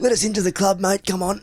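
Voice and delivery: high, wheedling con man voice; sneaky voice. Retold or imitated. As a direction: sweet-talk them in a high sly voice. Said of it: "It's my drug dealer voice".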